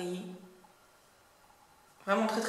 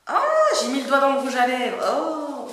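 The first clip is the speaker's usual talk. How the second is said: higher, louder cry of dismay; dismayed exclamation; 3 semitones higher, 6 dB louder than usual. Real, not acted. Vlogger who just put a finger in the lipstick, dismayed. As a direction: exclaim at a sudden mishap, pitch lifted.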